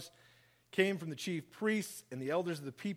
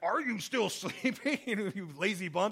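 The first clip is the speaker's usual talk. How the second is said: cross, angry, reproachful tone; 4 semitones higher than usual. Showing one way Jesus's words to his sleeping followers could be read: angry tone. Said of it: "you could put like an angry tone on that".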